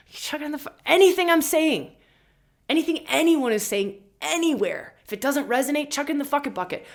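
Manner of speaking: high, loud, excited rant; fired up. Real, not acted. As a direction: let it rip with full excitement.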